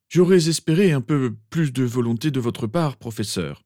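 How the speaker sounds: restrained exasperation, easing on the last word; exaspéré. Acted. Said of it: "exaspéré". (reproche aigu, exaspéré)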